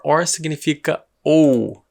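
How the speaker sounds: slowly spelled out for learners; slow explanation. Shown as a demonstration. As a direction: stretch it so students catch it. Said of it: "O que significa or".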